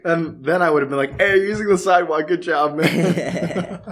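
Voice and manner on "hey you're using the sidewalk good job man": mock praise. Imagined mocking call to jaywalker.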